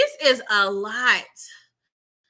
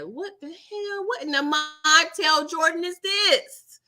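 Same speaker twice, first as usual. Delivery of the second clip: slow high disbelief; baffled; 5 semitones higher, slower than usual. Retold or imitated. Reacting to Corbin's line, slow baffled disbelief. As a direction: stretch out the shock. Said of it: "I'm like".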